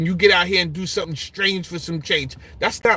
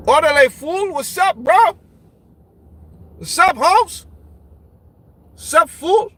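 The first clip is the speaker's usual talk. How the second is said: put-on higher, loud Chicano-accented hello; Mexican Californian greeting; 8 semitones higher, 4 dB louder than usual. Streamer imitating California Mexican greeting, Chicano accent. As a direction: greet like a West Coast Mexican homie. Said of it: "Mexican community out in California is calling everybody a fool".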